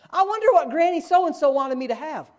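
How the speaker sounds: high, dreamy idle musing; high mock wondering. Preacher mocking someone who won't read the will, high dreamy musing. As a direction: muse like a clueless heir.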